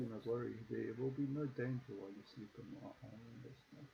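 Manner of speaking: soft, otherworldly fey lady; eerie woman voice. Acted. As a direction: speak softly and eerily. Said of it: "That wasn't eerie as fuck".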